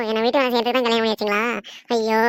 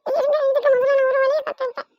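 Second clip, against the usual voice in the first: shrill retort. Acted. Bride snaps back at mother-in-law.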